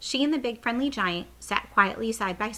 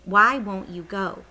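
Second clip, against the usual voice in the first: urgent plea; 8 dB louder, slower than usual. Acted. Sophie pleading with the giant.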